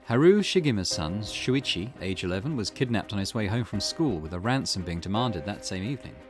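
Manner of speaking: measured, formal reading of a report; case file read-aloud. Acted. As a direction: read out the facts like a case summary.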